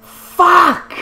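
loud high frustrated shout. Real, not acted. Gamer curses loudly at losing the race, frustrated. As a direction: curse it out at the top of voice.

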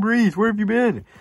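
high, loud exasperated demand; exasperated yell. Real, not acted. Fan calls out Drew Brees, exasperated high yell. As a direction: cry it out at the missing player. Calling out absent quarterback.

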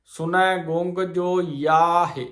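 ਯਾਹਿ falling to a stop; pause after ਯਾਹਿ. Shown as a demonstration. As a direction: end the phrase on ਯਾਹਿ and rest there. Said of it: "ਇੱਥੇ ਵਿਸਰਾਮ ਹੈ". (ਯਾਹਿ ਤੇ ਵਿਸਰਾਮ)

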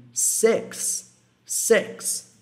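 "six" with a short E-like vowel; six com som de E. Shown as a demonstration. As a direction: relax the vowel of "six" toward E. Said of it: "como se fosse um E". ("six" soando quase "seks")

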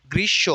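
গ্রীষ্ম as "grish-shõ", no m; nasal final o. Shown as a demonstration. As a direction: end গ্রীষ্ম on a nasalised "sho". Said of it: "ওকার আছে এবং উপরে চন্দ্রবিন্দু". (গ্রীষ্ম-এর শেষে "শোঁ", চন্দ্রবিন্দুসহ)

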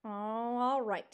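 grudging, drawn-out mild growl. Acted. Porcupine reluctantly agreeing to help, mildly growling. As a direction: give in slowly, grumbling. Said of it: "he growled".

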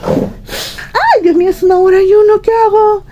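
harried mom realizing how late it is; exasperated. Real, not acted. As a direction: throw up your hands, frazzled. Overwhelmed mother, time running out.

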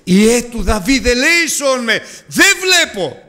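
high, slow pleading cry; high desperate plea; crying out for mercy. Shown as a demonstration. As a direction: beg to be heard. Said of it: "φωνάξουμε".

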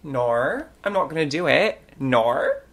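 mock Aussie "no" as "nor"; put-on Australian vowels; Australian accent. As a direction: say it with a playful Australian twang. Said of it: "did I just suddenly get someone ... from Australia".

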